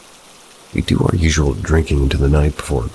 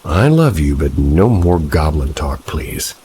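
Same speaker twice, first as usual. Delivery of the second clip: firm pleading. Acted. Pleading with girlfriend.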